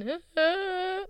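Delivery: high, drawn-out hesitant noises; imitated awkward "øh". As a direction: make high, helpless uh sounds. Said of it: "jeg blev bare ved med at være sådan".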